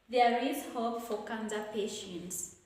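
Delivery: "patients" falling at the end; falling statement intonation. Shown as a demonstration. Teacher reads a statement example, with falling intonation. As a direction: let "patients" drop as a statement. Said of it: "take a falling".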